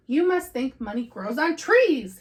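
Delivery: a mild mock shout from Papa Bear. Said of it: "he shouted".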